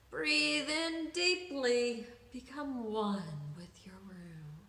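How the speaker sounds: slow, hushed meditation voice; guided breathing. Acted. Therapist leading Camellia's breathing, slow and hushed. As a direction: ease into a whisper as you guide.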